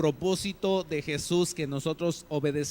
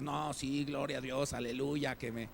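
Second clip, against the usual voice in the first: soft, lower, overly devout mock piety; mock pious believer; 3 semitones lower, 4 dB quieter than usual. Preacher mocking a super-spiritual listener, soft and devout. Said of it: "dirás".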